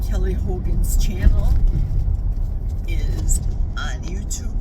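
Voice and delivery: talking over a bumpy ride; on a bumpy road. Real, not acted. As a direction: voice jolted by road bumps. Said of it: "Sorry for the bumps, guys".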